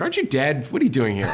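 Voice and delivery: chuckling through a teasing question; half-laughing, playfully incredulous; laughing mock question. Laughing as he teases dead actors who visit the set.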